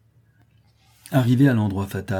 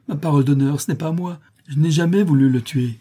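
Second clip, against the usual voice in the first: acted tearful insistence, raised in pitch; sobbing plea; 6 semitones higher, 5 dB louder than usual. A narrator's reading. Potter swearing his innocence to the crowd, sobbing. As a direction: protest desperately, as if sobbing. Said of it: "dit-il en sanglotant".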